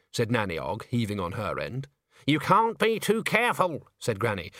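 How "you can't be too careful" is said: higher-pitched cautioning witch; lightly voiced, cautious older witch; wary old witch. A narrator's reading. Witch justifies barricading the door to her friend, cautioning. Granny warns her roommate.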